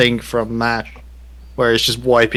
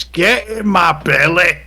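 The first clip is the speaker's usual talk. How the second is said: slow, loud, higher growling monster; owlbear voice; 7 semitones higher, 5 dB louder, slower than usual. Acted. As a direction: bellow it like a hungry beast. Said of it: "the first thing the owlbear says".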